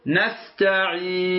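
نستعين with the ya held four counts; نستعين stretched to a middle length on the ya; نستعين with a four-beat ya. Shown as a demonstration. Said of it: "لك أن تقول".

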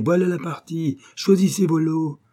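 high mock fairground barker call; barker's cry. Boy imitating the game owner, mock fairground barker cry. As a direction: hawk it like a stall keeper. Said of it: "rien qu'à crier".

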